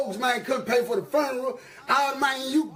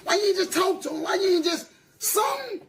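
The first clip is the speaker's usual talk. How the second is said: mocking plea; 5 semitones higher than usual. Mocking what people tell a rapper to do.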